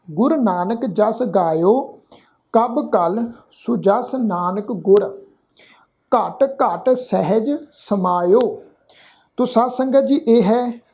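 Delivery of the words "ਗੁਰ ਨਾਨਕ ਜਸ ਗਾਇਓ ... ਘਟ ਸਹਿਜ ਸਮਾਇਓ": slow, measured verse recitation; reciting Gurbani verse with reverence; scripture recitation. Acted. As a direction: intone the verse slowly and devoutly.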